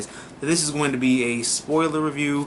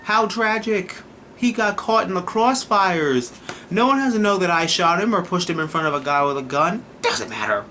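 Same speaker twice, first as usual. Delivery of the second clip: mock innocence; 6 semitones higher than usual. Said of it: "it'd have been like".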